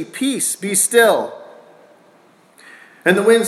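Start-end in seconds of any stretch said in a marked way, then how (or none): 0.0-1.3 rebuking the storm. Retold or imitated. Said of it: "he rebuked the wind and said".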